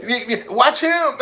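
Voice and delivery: high, loud, breaking into laughter; laughing. Real, not acted. Pointing someone out to friends, laughing loudly. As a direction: laugh through the words.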